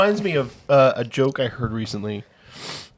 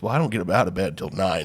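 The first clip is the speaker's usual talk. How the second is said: laughing punchline; 6 semitones lower, 5 dB quieter than usual. Acted. Punchline of old man joke.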